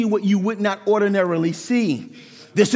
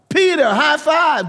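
cheery greeting; 6 semitones higher, 3 dB louder than usual. Pretend. Imagined John greeting Peter.

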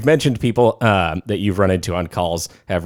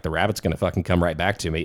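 softly, unbothered; a calm quiet aside; 3 semitones lower, 6 dB quieter, faster than usual. Retold or imitated. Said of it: "sitting there like".

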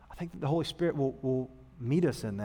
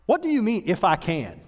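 incredulous Jesus; 5 semitones higher, 3 dB louder than usual. Retold or imitated. Jesus retorts to doubting father.

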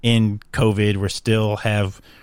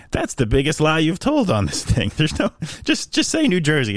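mock outrage; 7 semitones higher than usual. Teasing sister's Twitter location.

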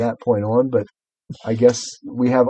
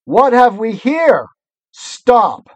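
high, slow, imperious witch; evil queen; 9 semitones higher, 5 dB louder, much slower than usual. Acted. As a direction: command them like a cruel queen. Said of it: "the witch said".

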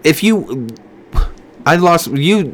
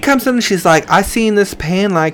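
put-on college girl voice; 3 semitones higher than usual. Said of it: "I can't keep the voice".

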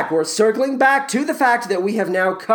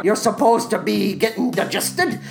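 lightly hammed-up grumpy ogre voice; Shrek. Ogre tells the musicals what goes in his belly, as Shrek. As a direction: grumble comically as the cartoon ogre. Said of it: "Shrek, once again".

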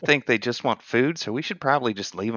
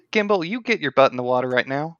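lightly voiced scolding mom; a hint of a stern mother calling her kid; disappointed mom voice. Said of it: "in her best disappointed mom voice".

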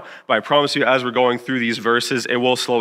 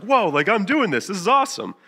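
higher-pitched, wowed delight; excited kid; 8 semitones higher than usual. Retold or imitated. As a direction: retell a kid's thrilled discovery. Kid thrilled at steering cart.

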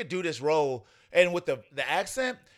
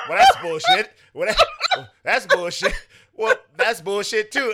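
high, loud mocking impression of a grumbling friend; mock grumble; 4 semitones higher, 7 dB louder than usual. Teasing Tiff about her reaction, high and mocking. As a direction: squeal it like you're imitating her annoyance. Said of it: "She was just like".

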